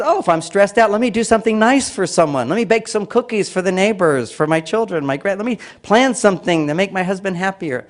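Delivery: lightly voiced brain eager to be nice; eager helper voice. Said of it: "your brain says".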